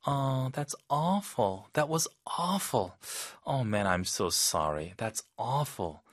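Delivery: softly caring; soft sympathy. Shown as a demonstration. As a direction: comfort a friend with bad news. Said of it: "아주 부드럽게".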